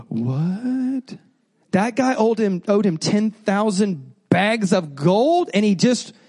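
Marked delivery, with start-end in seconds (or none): 0.1-1.2 stunned what. Retold or imitated. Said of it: "And the whole crowd went".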